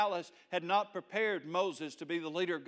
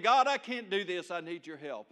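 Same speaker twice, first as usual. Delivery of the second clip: raised, pleading call to God, easing off; crying out; 6 dB louder than usual. Acted. Believer asking God for help, mild crying out. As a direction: start loud, then drop into the admission. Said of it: "we can cry out to God".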